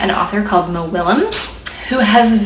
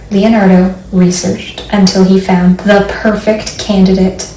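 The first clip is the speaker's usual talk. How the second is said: slow storybook reading with long pauses; reading to children. Acted. Librarian reading a picture book to children. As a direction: read it gently to little listeners.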